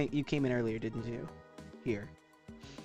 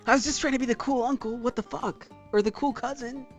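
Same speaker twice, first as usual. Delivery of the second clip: starts calm, then bursts out higher and louder; calm turning angry; 10 semitones higher, 8 dB louder than usual. Real, not acted. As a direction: build from calm to a laughing rant.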